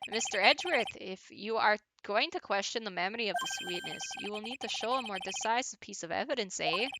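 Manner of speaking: lightly hammed-up Canadian judge; stereotypical Canadian accent. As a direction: put on a cartoonish Canadian accent. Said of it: "doing that really stereotypical Canadian accent".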